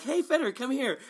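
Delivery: high-pitched, playful taunting call; mock confrontation. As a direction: call him over for a pretend punch. Acts out confronting the smug player.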